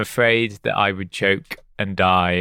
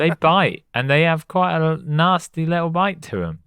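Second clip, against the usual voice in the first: heated rant; 6 semitones higher than usual. Pretend. Ranting against ladybugs.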